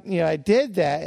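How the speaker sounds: usual speaking voice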